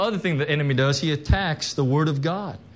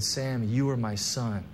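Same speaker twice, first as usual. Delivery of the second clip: voice of God; 3 semitones lower, 6 dB quieter than usual. Retold or imitated. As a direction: speak it tenderly, like a father blessing a son. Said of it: "Father God laid his hands on me and said".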